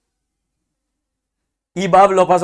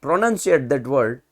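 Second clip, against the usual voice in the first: slow careful teacher; much slower than usual. Shown as a demonstration. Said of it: "now onwards we'll pronounce".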